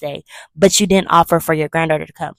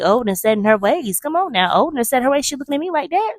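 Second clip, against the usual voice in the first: higher-pitched mock disbelief; incredulous echo; 7 semitones higher than usual. Child doubts family's excuse for great aunt, high and incredulous. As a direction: repeat their excuse as if you can't buy it. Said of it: "And I'm looking like".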